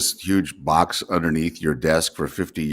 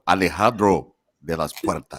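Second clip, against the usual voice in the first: train station announcement; 4 dB louder than usual. Retold or imitated. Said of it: "can't even say it anymore".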